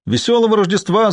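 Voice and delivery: high-pitched Christmas hail; shouted greeting. A narrator's reading. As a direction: call it out further, pitched well up. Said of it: "закричал он громче".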